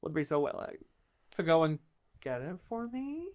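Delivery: lightly voiced, chatty noble with lively pitch swings; persuasive court noble. Court noble asking adventurers to fetch a tablet, persuasive. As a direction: stretch the key words to coax them.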